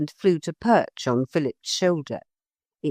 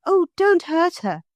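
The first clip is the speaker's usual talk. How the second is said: Lucy voice; 13 semitones higher, 3 dB louder than usual. A narrator's reading. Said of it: "said Lucy".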